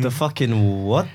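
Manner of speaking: slow, stunned question; shocked disbelief. Real, not acted. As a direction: react in total disbelief. Shocked reaction to manzini.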